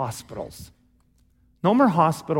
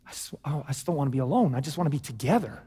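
much softer, a hushed plea not to be alone; soft longing; 5 semitones lower, 8 dB quieter, faster than usual. Retold or imitated. Preacher voicing the human longing, soft and hushed. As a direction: sigh it out like a lonely heart. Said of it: "this DNA that".

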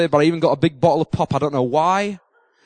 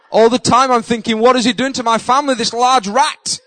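laughing through the words; can't keep from laughing; 5 semitones higher, 4 dB louder than usual. Real, not acted. Laughing as he recalls thinking about the rat.

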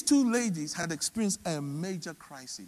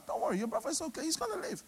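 soft, lifted, comforting voice; reassuring; 8 semitones higher, 7 dB quieter, much faster than usual. Retold or imitated. He assures Martha about her brother, softly reassuring. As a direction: gently put her worry to rest, quietly. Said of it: "he assured Martha".

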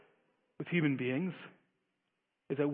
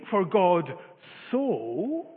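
"so" set apart after a pause and held long; stress on so; much slower than usual. Shown as a demonstration. Preacher quoting the verse to his congregation, emphasis on "so". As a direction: lean on "so", drawing it out. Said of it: "we can sometimes put an emphasis on it".

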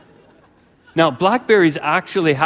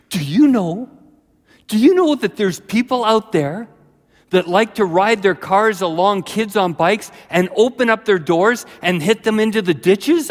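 alarmed warning; 7 semitones higher, 4 dB louder than usual. Acted. Friend warns him about drivers.

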